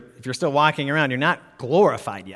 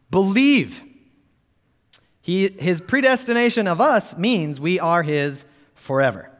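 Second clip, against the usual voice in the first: higher, forceful pulpit reading; emphatic quote reading; 6 semitones higher, 3 dB louder than usual. Acted. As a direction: proclaim the quotation with conviction. Reads a quotation emphatically to congregation.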